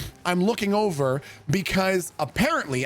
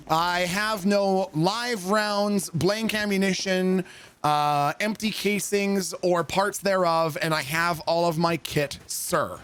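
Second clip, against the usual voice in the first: formal oath; slower than usual. Retold or imitated. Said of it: "So you have to say".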